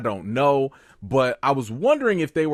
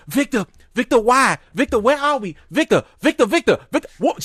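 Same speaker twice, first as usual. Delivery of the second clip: mocking whiny Tabitha; 10 semitones higher, 5 dB louder than usual.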